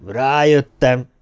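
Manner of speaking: slow, drawn-out word with a touch of mirth; hoarse laugh. A narrator's reading. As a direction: stretch it out as if on a hoarse chuckle. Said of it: "kacagott fölrekedten Byron". (elnyújtva, rekedtes kacagást érzékeltetve)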